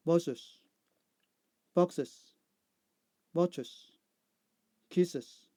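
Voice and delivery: careful model reading, final syllable sounded; "iz" endings. Shown as a demonstration. Teacher giving answers to learners, "iz" syllable endings. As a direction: separate words, each ending in an added "iz" syllable. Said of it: "I see sound".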